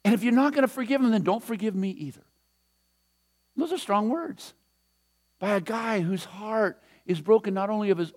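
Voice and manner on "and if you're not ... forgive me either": Moses begging God, pitch rising as he pleads; pleading. Retold or imitated. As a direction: plead for the people, higher with each forgive him. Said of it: "He's going".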